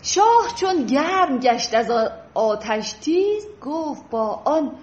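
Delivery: slow, measured verse reading; unhurried classical verse for a class; poetry recitation. Acted. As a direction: recite Persian couplets with pauses between phrases. Recites the poem's love scene.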